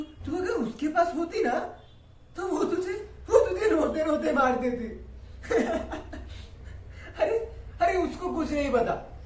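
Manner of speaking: talking through chuckles; half-laughing, unhinged father; laughing creepily. Acted. (हँसते हुए डरावना पिता)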